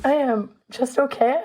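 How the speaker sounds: stuffy cold voice; talking through a head cold; sick voice. Real, not acted. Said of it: "I have a cold".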